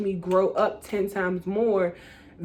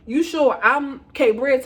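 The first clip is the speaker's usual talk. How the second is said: laughing disbelief; 5 semitones higher, 5 dB louder, slower than usual. Retold or imitated.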